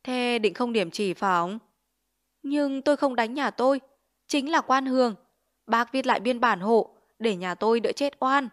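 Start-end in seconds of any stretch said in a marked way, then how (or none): 2.4-8.5 pleading. Acted. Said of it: "Mẹ tôi lại van nó".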